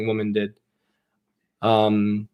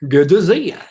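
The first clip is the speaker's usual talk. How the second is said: whisper; 6 semitones higher, 6 dB louder than usual. Real, not acted. Greeting a viewer.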